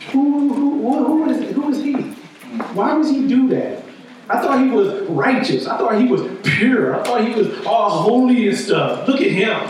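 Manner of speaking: high, scandalised who-is-he; incredulous crowd. Retold or imitated. Self-righteous crowd mocking Jesus.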